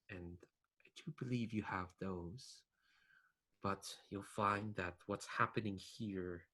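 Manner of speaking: measured, pause-laden mentor's warning; sigh, then counsel with long, weighty pauses; lightly voiced ghostly mentor. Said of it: "hear your voice of your ghost mentor".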